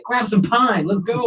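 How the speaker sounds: high-pitched mock jeer; re-enacted heckling. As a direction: act out a hyped fan taunting the batter. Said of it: "I'd say it pretty loud".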